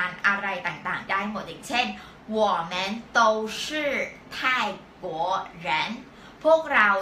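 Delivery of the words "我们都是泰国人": one word at a time, pauses between; word-by-word model reading. Shown as a demonstration. Teacher gives students an example with 都, word-by-word model reading.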